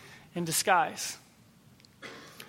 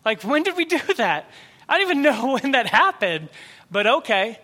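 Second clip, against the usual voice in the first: surprised; 3 semitones higher, 3 dB louder than usual. Retold or imitated. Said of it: "they're like".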